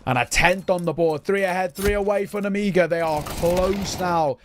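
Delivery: lively play-by-play commentary; esports caster. Acted. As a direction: call the action like a caster. Live play-by-play casting.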